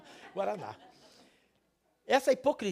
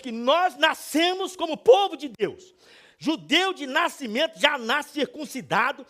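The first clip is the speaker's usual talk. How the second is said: high, loud, emphatic proclamation; full-force preaching; 7 semitones higher, 9 dB louder, slower than usual. Acted. Preacher explaining Jewish pride of birth, forceful proclamation. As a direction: drive each point home to the congregation.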